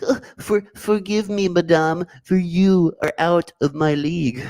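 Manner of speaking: high, slow mock-courtly plea to madame; put-on voice again. Second go at the chat message, high slow put-on voice. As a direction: redo the line up high and drawn out. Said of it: "let me read this in the correct voice".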